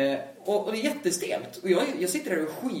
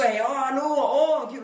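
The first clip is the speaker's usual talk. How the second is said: much higher, louder happy greeting; excited hellos; 7 semitones higher, 5 dB louder than usual. Retold or imitated. His friend arriving and greeting Alva, much higher and louder. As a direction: pile on cheerful hellos. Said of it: "säger också".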